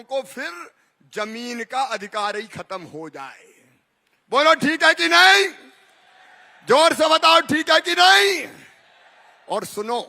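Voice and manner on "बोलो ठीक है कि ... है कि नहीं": booming political rally speech. Real, not acted. Rally crowd call.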